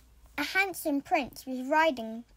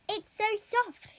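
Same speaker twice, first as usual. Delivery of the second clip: high, slow and dreamy; a princess stroking her new hair; dreamy young Rapunzel; 7 semitones higher than usual. A narrator's reading. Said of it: "she said".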